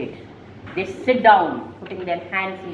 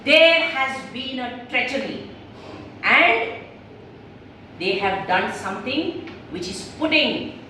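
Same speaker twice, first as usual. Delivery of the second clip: leader's proclamation. Acted. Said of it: "And then Sandy says".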